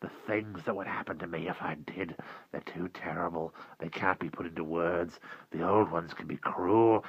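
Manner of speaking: hushed dread, partly whispered; broken, haunted. A narrator's reading. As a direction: drop from the wail to a frightened hush. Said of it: "his voice was broken and simple".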